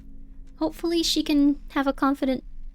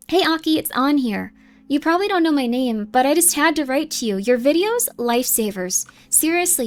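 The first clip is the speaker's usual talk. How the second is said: lightly voiced, gushing fan-letter read; earnest fan. Fan writes to thank Aki, earnest and gushing. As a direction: pour out sincere gratitude to an idol.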